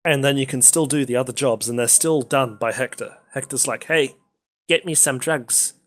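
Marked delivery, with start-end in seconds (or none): 3.9-5.7 put-on Mexican accent. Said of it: "I was trying to do a Mexican accent".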